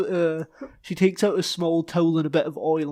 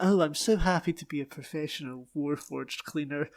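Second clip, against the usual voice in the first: mock-happy, said softly through a smirk; lightly sarcastic, feigned delight; 3 semitones lower, 5 dB quieter than usual. Cleaner sneering at her new job, sarcastic. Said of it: "a sarcastic smirk".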